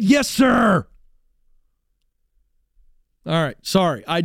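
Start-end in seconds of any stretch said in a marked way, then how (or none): 0.0-0.9 obedient player. Retold or imitated. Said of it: "and you said".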